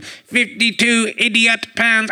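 slow computer processing robot voice; robot voice, calculating in monotone. Pretend. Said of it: "I've got to go over to Robot Voice".

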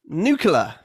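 nuclear said noo-kyuh-ler; American nucular. Shown as a demonstration. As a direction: swap the sounds: nuclear as nucular. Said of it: "the second version is American".

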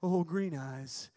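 slow, drawn-out spooky name; spooky storyteller. Retold or imitated. Naming the campfire monster, slow spooky drawl. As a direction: stretch it out like a ghost story.

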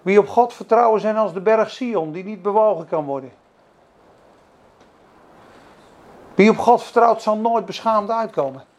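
loud, declaiming verse; proclaiming scripture. Acted. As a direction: proclaim it like a weapon. Proclaiming scripture against devil.

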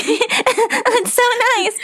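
high, slow fake sweetness through anger; forced sweetness. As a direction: sound sweet while seething inside. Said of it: "my vein is popping".

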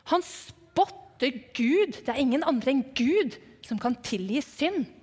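a touch of indignation, slow and drawn out on the accusation; mildly angry onlookers. Retold or imitated. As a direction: voice a mildly offended bystander. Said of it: "de hørtes litt sinte ut". (litt sint og forarget)

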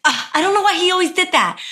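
a light, fond puzzlement; amused wife. Retold or imitated. Wife amused at husband's habit.

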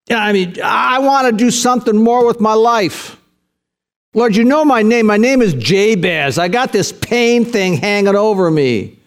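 acted plea to God, building from restrained to high-pitched urgency; desperate prayer. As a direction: pray it out with growing urgency. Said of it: "he came in desperation".

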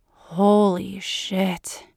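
slow, awed and smiling; amazed, smiling. Acted. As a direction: let the wonder stretch out slowly. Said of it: "a smile in his voice".

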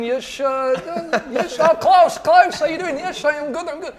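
laughing fake Spanish accent. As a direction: play a fake Spanish footballer greeting the doorman. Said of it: "Why did you put a Spanish accent on?".

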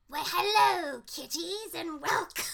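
hammed-up British welcome; British accent. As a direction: sing out a mock British hello. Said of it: "I just do full British".

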